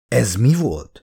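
timid question. A narrator's reading. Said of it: "szólalt meg félszegen Milburn".

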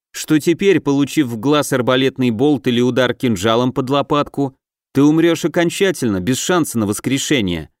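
distant, solemn oracle voice; detached, ceremonial oracle speaking; prophetic trance voice. Acted. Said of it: "Голос Оракула звучит немного отстранённо и торжественно".

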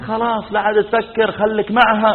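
high-pitched huffy brush-off; imitated wife's dismissal. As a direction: send him away in mock indignation. Wife rejects husband in quarrel. (تقليد زوجة تصده بزعل)

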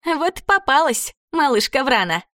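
bare your teeth as the ghoul; snarling ghoul. A narrator's reading. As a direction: ghoul girl gloating over her catch, high and snarling. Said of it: "оскалилась Карабелла".

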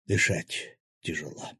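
slow, labored words of a wounded man; wheezed out. A narrator's reading. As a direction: wheeze it softly and slowly. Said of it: "прохрипел глава акул".

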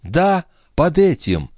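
lightly voiced young wife; young woman's voice. Lorenza's voice, higher.

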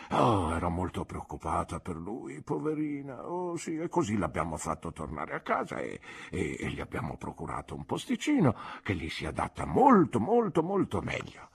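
put-on soft, doting old doctor trailing off; a mild old man fussing gently; kindly old doctor. Old doctor explaining Jack Maldon's return, soft and doting.

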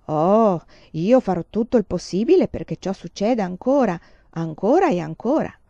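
each word hit like a piano key; emphatic promise. A narrator's reading. Suitor promising the girl, stressing each word. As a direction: stress every word, eager and loud. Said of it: "battendo un tasto ogni volta per sottolineare le parole".

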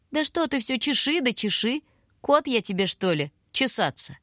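high, put-on voice of an offended caller; peeved stranger. Caller at the window bickers with Lusha: high, offended. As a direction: squabble back with mock offence.

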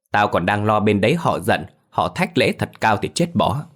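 lightly voiced domineering patriarch, condescending; arrogant clan head. Clan head banishing Phiên's family, lightly haughty.

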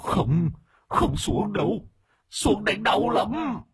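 high, slow frightened ghost; trembling stammer. A narrator's reading. Frightened ghost pleads not to be taken down below. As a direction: plead slowly, high and scared. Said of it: "run rẩy lắp bắp".

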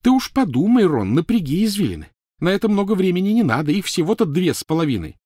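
high, loud, scathing; biting sarcasm. Acted. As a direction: taunt him sarcastically. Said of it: "с жутким сарказмом".

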